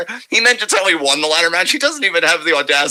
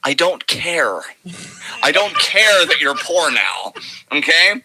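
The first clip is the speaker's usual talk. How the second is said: smug dismissive; slower than usual. Retold or imitated. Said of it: "Here's my inflection about your struggle".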